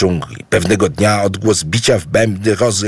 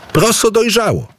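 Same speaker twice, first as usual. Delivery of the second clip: high, delighted call. A narrator's reading. Idu discovers the ripened millet, calling out. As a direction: cry the news with pitch jumping up. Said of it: "zawołał".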